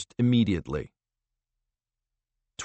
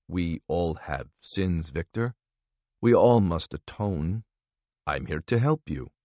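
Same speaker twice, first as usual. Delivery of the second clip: soothing interrogator; 3 semitones lower, 3 dB quieter than usual. Acted. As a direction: coax him gently like a confessor. Vella coaxes the prisoner.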